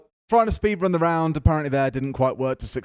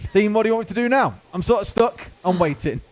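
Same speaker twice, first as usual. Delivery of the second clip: British accent voicing a player; 5 semitones higher than usual. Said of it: "it's not an Aussie accent. I promise you it's a British one".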